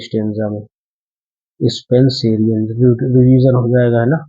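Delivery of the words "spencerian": Spencerian drawn out syllable by syllable, very slow; teacher slowly spelling out Spencerian; slow pronunciation demo. Shown as a demonstration. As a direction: spell out Spencerian slowly for the class so they catch each syllable.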